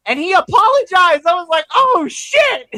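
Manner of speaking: high, loud shocked squeal; loud stunned "oh shit"; shocked excitement. Retold or imitated. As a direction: shriek it in disbelief. Excited reaction to apology.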